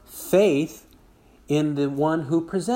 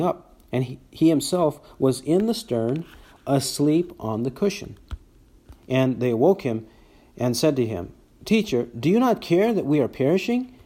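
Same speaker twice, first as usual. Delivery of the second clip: emphatic read-aloud Bible narration; scripture reading; 3 dB louder than usual. Acted. Preacher reads the storm story to the congregation, emphatic scripture reading. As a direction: read the passage out with lively emphasis, quotes lifted.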